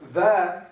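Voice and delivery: tha, said with the tongue tip forward; a crisp tha with the tongue ahead; Arabic letter tha, pronounced clearly; Arabic letter sound. Shown as a demonstration. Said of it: "the difference between tha and tha".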